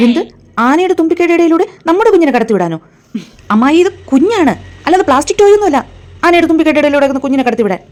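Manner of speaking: acted outrage at an in-law; indignant protest. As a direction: object in disbelief to a risk to your baby. Appalled objection to elephant ritual.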